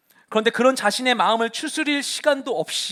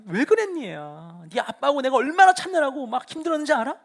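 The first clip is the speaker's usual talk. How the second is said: a touch of reproach, higher pitched; reproachful mother; 4 semitones higher than usual. Retold or imitated. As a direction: scold the boy mildly. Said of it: "원망과 책망 섞인 목소리로". (아들을 찾은 마리아가 원망 섞어 책망하듯)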